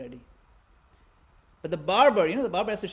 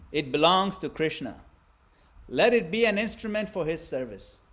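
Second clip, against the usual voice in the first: steady, calm voice; 6 dB louder than usual. Acted. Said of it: "but his voice is steady".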